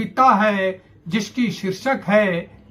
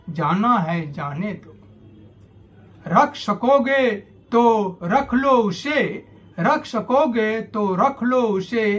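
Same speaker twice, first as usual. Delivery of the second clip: parting poem recitation. Acted. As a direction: recite it as letting go, each phrase set apart.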